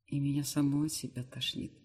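ordinary delivery

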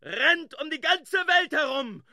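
rollicking sailor's tale that leaps at the end; boisterous yarn. Acted. Stubb to Starbuck about the big wave, boisterous shout.

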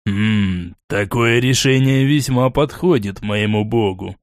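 a touch of musing, low; lightly pondering, taking his time; thoughtful. Acted. Borey weighing the elf's offer, mildly thoughtful. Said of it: "задумчиво произнёс Борей".

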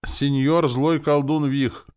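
slow, high, loud ceremonial address; solemn. A narrator's reading. Soldier addressing his new lord, solemn. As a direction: proclaim it like an oath. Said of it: "торжественно заговорил парень".

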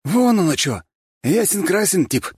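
high, cocky street-tough swagger; gopnik voice. A narrator's reading. Sweet boy faking a gopnik to newcomers, cocky swagger. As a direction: play a fake tough guy from the block. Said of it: "Голос Валентина тут же стал нормальным".

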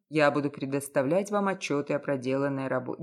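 low businesslike detective. A narrator's reading.

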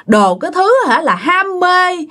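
acted high-pitched, wounded tirade; furious scolding. Mistreated wife berates her husband over her pain, angrily scolding. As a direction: lash out in hurt, pitch swinging high. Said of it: "chửi quá trời chửi luôn nha".

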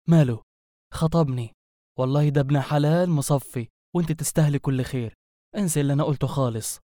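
lightly voiced girl hastily changing her tune; backpedalling girlfriend. Girl learns her friend is engaged to him, hasty backpedalling. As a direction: rush to take back the insult.

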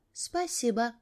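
тихое, почти шёпотом, мягкое спасибо; тихо выдохни «Спасибо», едва слышно. Acted. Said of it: "прошептала". (тихое «Спасибо» шёпотом)

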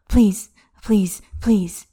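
breathless pleading whisper; whispered begging. Acted. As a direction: beg it in a desperate whisper. Xie begging during sex.

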